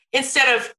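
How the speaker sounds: ordinary delivery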